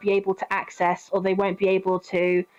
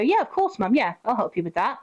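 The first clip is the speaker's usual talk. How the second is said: agreeable reply. Acted. Models agreeable reply to mum.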